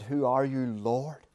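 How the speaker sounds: quiet awed question; hushed question. Acted. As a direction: ask it almost in a whisper. Saul's question retold, hushed.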